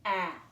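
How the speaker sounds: ah as a short clipped vowel; short a sound. Shown as a demonstration. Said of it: "it makes a short sound".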